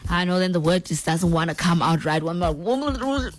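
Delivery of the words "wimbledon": slow, careful "Wimbledon"; devagar e com cuidado. Real, not acted. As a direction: stretch out "Wimbledon" to get it right. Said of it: "say it slowly so I can say it".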